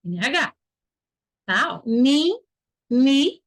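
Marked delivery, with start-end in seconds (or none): 1.9-3.4 NI held with a plain, un-nasal I; pure I. Shown as a demonstration. Teacher showing the I is pure, sounded out. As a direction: stretch each NI with a pure I. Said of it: "o I tá puro".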